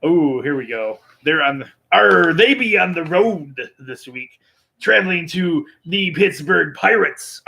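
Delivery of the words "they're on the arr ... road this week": pirate voice. Pretend. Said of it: "I'm still talking like a pirate".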